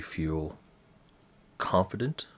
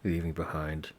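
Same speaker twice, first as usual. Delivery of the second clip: game master narration; 4 dB louder than usual. Acted. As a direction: paint the scene for the players. Game master sets the scene.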